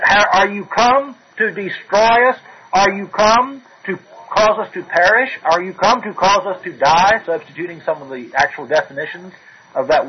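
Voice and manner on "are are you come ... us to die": fearful demon. Retold or imitated. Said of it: "In fear as he sees the Savior".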